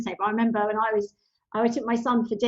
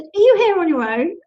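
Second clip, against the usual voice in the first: pushy, loud and raised; loud demanding question; 6 semitones higher, 8 dB louder than usual. Retold or imitated. Lady at the pool confronting the mother, loud. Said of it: "And she said".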